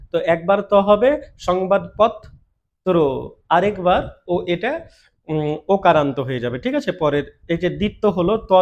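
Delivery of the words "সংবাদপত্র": সংবাদপত্র said slowly with the ত doubled; slow model reading. Shown as a demonstration. Teacher modelling সংবাদপত্র slowly after explaining the doubling. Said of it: "দ্বিত্ব হয়".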